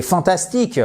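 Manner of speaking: "fantastic" with a French accent, evenly stressed; wrong stress. Shown as a demonstration. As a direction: say "fantastic" the French way, no punched middle syllable. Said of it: "du mal à être compris si vous dites". (« fantastic » à la française, sans accent tonique)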